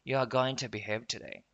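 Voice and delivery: "to" reduced to a short unstressed "tuh"; weakened "to". Shown as a demonstration. Teacher showing American casual speech, reduced "to". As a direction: glide lightly over "to" into "behave". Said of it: "读得很快的时候就会弱化成t啊".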